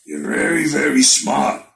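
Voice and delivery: lightly voiced mock Arum; a hint of sly old promoter. Vlogger doing Arum talking to Spence, mild mock voice. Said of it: "let me do the Arum voice".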